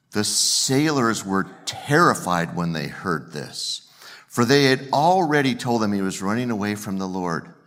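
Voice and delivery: measured storytelling from scripture; scripture reading. Acted. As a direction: read the story out deliberately. Reads the Bible story.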